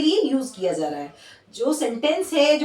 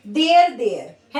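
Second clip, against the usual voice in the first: slow demo; 4 dB louder, much slower than usual. Shown as a demonstration. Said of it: "एक there होता है third person".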